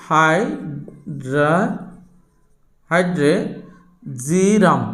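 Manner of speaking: হাইড্রেজিরাম drawn out in long, separated syllables; slow dictation. Real, not acted. Teacher writing out a Latin name for students, slow dictation. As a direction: stretch each part of হাইড্রেজিরাম very slowly.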